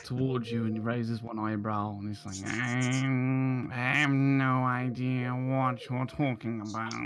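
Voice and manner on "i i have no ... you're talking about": lightly voiced, drawn-out shopkeeper denial; innocent shopkeeper. Shopkeeper questioned about a note, feigning innocence. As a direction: feign ignorance as a wary shopkeeper.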